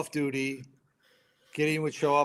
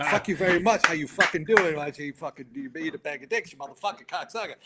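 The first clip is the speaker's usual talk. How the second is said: higher-pitched mock abuse through amusement; mock heckling; 4 semitones higher than usual. Firefighters cursing the camera as they pass, mock heckle. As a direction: rattle off insults in imitation, half laughing.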